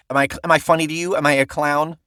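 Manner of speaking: quick, lightly voiced mock tough guy; quoting Goodfellas. Quoting the Goodfellas scene to his co-host, lightly played tough guy. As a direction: toss off the movie line fast as a half-hearted gangster. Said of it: "That, that scene".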